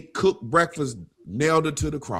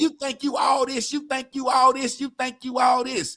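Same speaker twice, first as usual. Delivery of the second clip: high, level singsong-free chant, needling; high-pitched mocking repetition; mock taunting; 12 semitones higher than usual. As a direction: imitate a needling taunt on one high note. Acting out women taunting a man.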